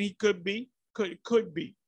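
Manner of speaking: "could" picked out and repeated for emphasis; stress on COULD. Real, not acted. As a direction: lean on "could" in "could be". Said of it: "emphasis on, on the word could or may".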